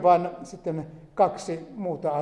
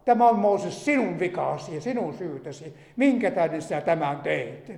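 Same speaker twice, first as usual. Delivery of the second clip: grumbling complaint; 4 semitones higher than usual. Retold or imitated. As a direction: voice the people grumbling at Moses. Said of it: "Nurinä Moosesta kohtaan". (nurisevaa moitetta Moosekselle, aluksi korkeammalla ja kovempaa)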